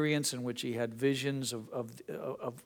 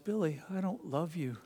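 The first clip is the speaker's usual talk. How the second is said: gentle father; 3 semitones higher, 4 dB quieter than usual. Retold or imitated. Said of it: "the father said".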